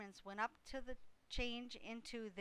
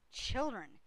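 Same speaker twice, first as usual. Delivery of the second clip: put-on a sharp, louder call to the children; snapping; 3 semitones higher, 7 dB louder than usual. A narrator's reading. Mother goose silencing her begging goslings, sharp and louder. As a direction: cut them off like a cross mother goose. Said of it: "snapped the goose".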